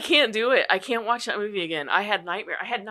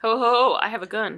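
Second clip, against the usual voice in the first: jolly ho ho ho; 4 semitones higher than usual. Acted. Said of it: "You have to do the voice".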